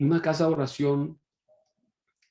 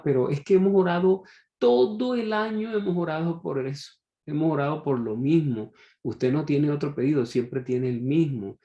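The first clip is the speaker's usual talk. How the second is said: exasperated complaint; 4 semitones higher than usual. Retold or imitated. Church members scold the woman for repeating her request, exasperated. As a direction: scold her for asking yet again.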